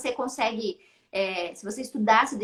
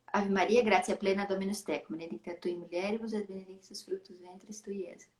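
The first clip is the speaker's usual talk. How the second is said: Latin recited softer and low, by rote; murmured Latin prayer; 3 semitones lower, 6 dB quieter than usual. Retold or imitated. Son reciting the Latin Ave Maria to his mother, soft murmur. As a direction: mumble the prayer from memory.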